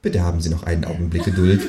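automated hold message; phone recording. Acted. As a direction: sound like a telephone tape.

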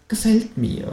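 high kangaroo voice, pleased; the kangaroo likes it; high kangaroo nod of approval. A narrator's reading.

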